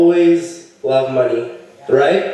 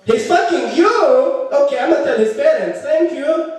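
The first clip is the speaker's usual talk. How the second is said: high, slow, drawn-out sister voice; accented sister impression; 9 semitones higher, slower than usual. Sister on the phone learning of the girlfriend, high slow voice. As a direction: stretch the words, pitched well up throughout.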